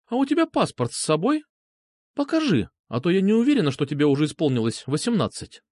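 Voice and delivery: a hint of a teasing girl playing strict; lightly voiced young woman. Girl's voice in dialogue.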